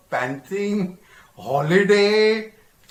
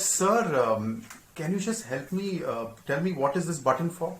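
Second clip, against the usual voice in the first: timid question; 8 dB quieter than usual. Retold or imitated. Timid cadet asks captain.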